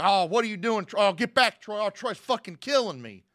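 panicked victim. Retold or imitated. Edgar on the voicemail being attacked, in mock panic. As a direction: cry out as if under attack. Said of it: "And he's like".

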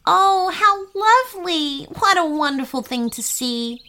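delighted. A narrator's reading. Sunshine seeing the tadpoles, high delighted burst. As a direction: gush over the tadpoles. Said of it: "delighting in the tadpole's".

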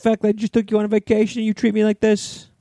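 mock parent scolding an ungrateful child; mock ungrateful-kid lecture. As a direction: ham up a parent guilt-tripping a kid. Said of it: "And you're like".

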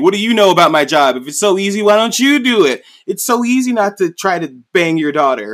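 furious king snapping at his prisoner; angry king rant. Retold or imitated. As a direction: rant back at him like an offended king. King's angry retort voiced.

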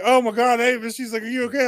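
high, worried imitation of the wife; alarmed wife. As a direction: sound shocked and concerned for her.

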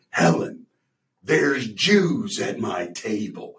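slow, drawn-out Nicholson snarl; Jack Nicholson impression. Nicholson's character to Helen at the restaurant, slow and drawn out. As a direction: lean into a lightly voiced Nicholson. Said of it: "He's like".

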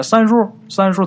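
high, loud eager calling of uncle; a kid rushing to greet his uncle first; eager child calling. Retold or imitated. Kids vying to greet the uncle, eager calls. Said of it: "那不都是上赶着喊吗".

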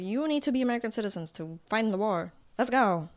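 put-on fast, brisk old newsreel announcer; old-timey voice. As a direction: rattle it off like a vintage newsreel. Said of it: "an old-timey voice and everything".

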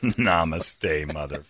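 soft, low, under-the-breath Namaste, mother; quiet repeat. Pretend. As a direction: mutter it back to yourself.

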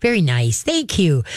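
calm, measured praise for a dog. Shown as a demonstration. Trainer showing the owner how to acknowledge good behavior, calm praise. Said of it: "Sometimes it's just your voice".

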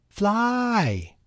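very high panicked shriek. A narrator's reading. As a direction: shriek it in terror. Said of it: "shrieked Henny Penny".

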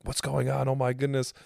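high mock-alarmed Frank voice; imitating Frank. Imitating the manager's fake panic, high voice. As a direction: play the fussing manager, pitched high. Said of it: "Frank's trying to be a character".

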